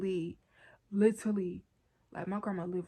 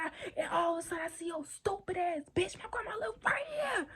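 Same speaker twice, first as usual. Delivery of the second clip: whispered, pitch higher at the end; angry whisper; 9 semitones higher than usual. Retold or imitated. To boyfriend explaining why she is there, an angry whisper. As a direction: spit it out in a furious hush.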